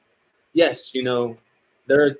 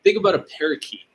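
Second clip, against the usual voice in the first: fast, wired, over-caffeinated; too much caffeine; 4 semitones higher, faster than usual. Real, not acted. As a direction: race through it, buzzing on coffee. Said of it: "I am so caffeinated right now".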